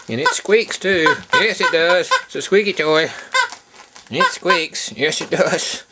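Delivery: high, loud puppy-teasing voice; playful excitement. Real, not acted. Owner shows puppies a squeaky toy, playfully excited.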